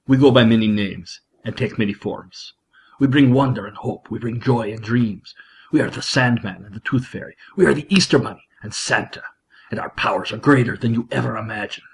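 bad Russian-accented Santa impression; Alec Baldwin's Russian Santa. Host quoting Santa from the film, bad Russian accent. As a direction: intone it solemnly in a badly faked Russian accent. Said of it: "my really bad imitation of Alec Baldwin, doing his not-so-bad Russian Santa Claus impression".

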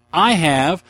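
slow, loud announcer boom; segment announcer voice. Acted. Podcaster introducing his segment, in a booming announcer voice. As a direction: announce the segment like a movie trailer. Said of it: "badass movie quote of the week".

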